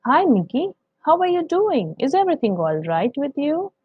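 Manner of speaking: high, chirpy cartoon duck greeting; Donald Duck voice. Teacher recording Donald's greeting to Mickey, high cartoon voice. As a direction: pitch way up like a cartoon duck saying hello. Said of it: "so Donald speaks like this".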